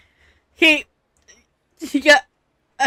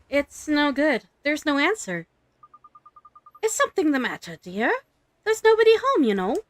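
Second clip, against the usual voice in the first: gossipy old neighbour, lightly voiced; a chatty sweet old woman; old lady voice; 4 semitones higher than usual.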